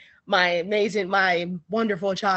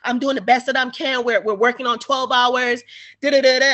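mildly mocked passive-aggressive excuse; a touch of a put-upon nurse; 4 semitones higher, 4 dB louder than usual. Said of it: "very passive aggressive".

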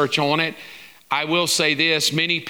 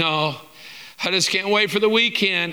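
mild mock moan; 4 semitones higher than usual. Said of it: "Or are you bemoaning".

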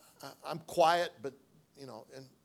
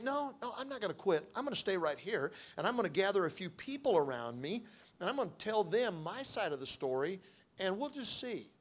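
defiant resolve; 4 semitones higher than usual. Retold or imitated.

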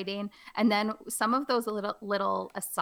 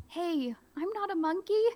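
high, indignant hammed protest; protest, offended; 8 semitones higher than usual. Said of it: "play it up and be funny".

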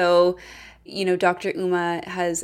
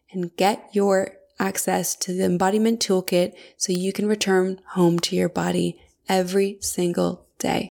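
measured, scripted promo delivery; ad read; 4 dB louder than usual. Acted. Host promoting the Embodiment Toolkit to listeners, ad read. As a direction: read it as a polished sponsor spot.

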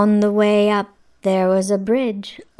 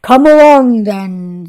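big goat voice; 2 semitones higher, 12 dB louder than usual. Acted. Big goat challenges troll.

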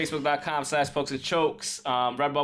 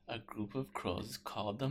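Homer impression; 4 semitones lower, 13 dB quieter than usual. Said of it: "And he's like".

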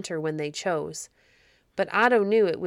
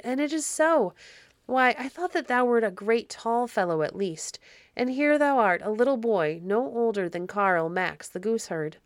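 lightly voiced, higher-pitched little girl; little girl, astonished; 4 semitones higher than usual. Elfish little girl sizing up Otto, lightly voiced in surprise.

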